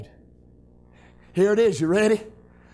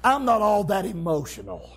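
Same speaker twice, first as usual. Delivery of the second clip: reserved churchgoer; 5 semitones lower, 4 dB quieter than usual. Retold or imitated. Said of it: "Somebody say".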